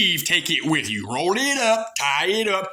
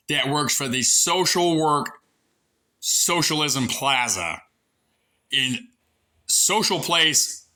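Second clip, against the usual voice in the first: slow, mocking drawl on social; sarcastic; slower than usual. Real, not acted. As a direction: stretch each word with scorn. Sarcastic drawn-out mockery.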